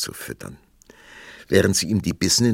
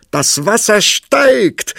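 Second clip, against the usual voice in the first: much higher and louder, slow, in her voice; excited cry; 12 dB louder, slower than usual. Acted. Princess crying out at the rising water, excited. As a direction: shout it out in delight. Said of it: "und rief".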